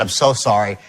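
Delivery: low-pitched contrite repeat; retold sincere apology; apologetic. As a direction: own up gently to the upset caller. Retold apology to crying caller.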